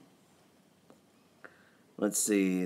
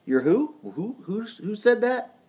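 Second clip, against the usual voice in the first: mock outrage; 14 semitones higher than usual. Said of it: "and I'm like".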